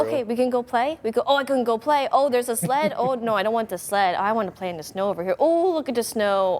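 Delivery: lightly voiced playful puppy; cutesy dog narration, understated. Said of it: "talk over this video in that puppy talk".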